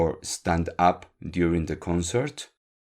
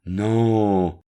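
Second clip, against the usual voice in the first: angry yell; 3 semitones higher, 6 dB louder than usual. Acted. Angry android yells at his professor, a loud shout. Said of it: "Le grita".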